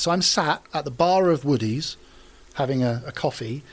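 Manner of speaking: usual speaking voice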